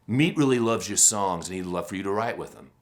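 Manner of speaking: put-on a light Brooklyn accent as the manager. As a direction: Brooklyn manager calling out a friendly hello. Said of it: "that's my best Brooklyn, Brooklyn accent".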